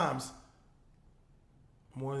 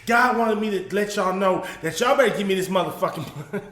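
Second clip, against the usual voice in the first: mock preacher, louder; 7 dB louder than usual. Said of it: "voicing the pastor".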